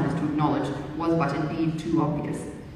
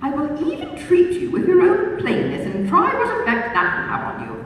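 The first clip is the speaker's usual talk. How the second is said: good-humoured; 9 semitones higher, 4 dB louder than usual. A narrator's reading. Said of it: "with a good-humoured smile".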